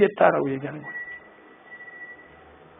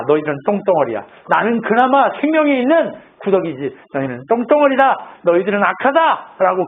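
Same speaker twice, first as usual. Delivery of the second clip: insistent, mostly raised-pitch retort; acted defiance; 3 semitones higher than usual. Job refusing to yield to his accusers, defiant. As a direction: hurl the insults back, acting indignant.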